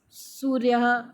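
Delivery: सूर्यः drawn out to a final "ha"; visarga demostrada. Shown as a demonstration. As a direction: sound out the ः of सूर्यः as an audible "ha". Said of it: "ह की आवाज़ देते हैं".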